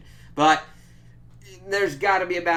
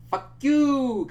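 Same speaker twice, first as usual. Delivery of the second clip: mock yelled retort; 12 semitones higher, 6 dB louder than usual. Mock retort to tracking parents.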